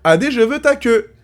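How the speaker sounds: slow model line for the learner to copy; teaching French phrase. Shown as a demonstration. (phrase modèle lente et haute)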